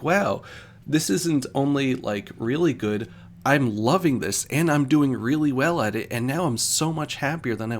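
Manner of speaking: excited rush of enthusiasm; thrilled student. Retold or imitated. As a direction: act out the joy of finally loving it. Retold student thrilled by counseling.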